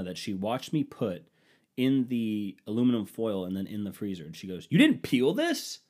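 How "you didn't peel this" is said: high, loud and slow, playing the wife; wife's shocked question. Wife accusing him over the frozen banana, high and loud. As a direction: mimic her outraged disbelief.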